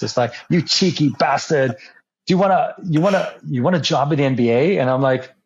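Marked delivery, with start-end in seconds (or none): 0.5-4.8 put-on Australian accent. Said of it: "Wait, are they both Australian?".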